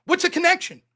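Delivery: cornering the other debater; demanding proof. Real, not acted. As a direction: snap out each demand.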